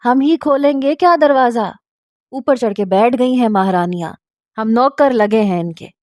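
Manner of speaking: high, sharp complaint at the start that eases after; shrieking at the door. Acted. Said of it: "चीखी". (ऊँची आवाज़ में झुंझलाकर चीखना)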